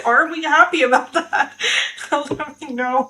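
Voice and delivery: laughing, doubtful question; giggly, rising are we happy; teasing doubt. Real, not acted. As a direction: tease whether happy is true.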